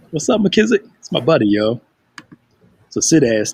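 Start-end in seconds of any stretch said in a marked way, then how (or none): 0.1-1.8 very high, pushed-up voice. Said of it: "I'm about to sound like Martin".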